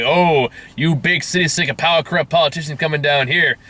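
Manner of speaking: put-on Southern accent. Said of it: "he's Southern in my accent".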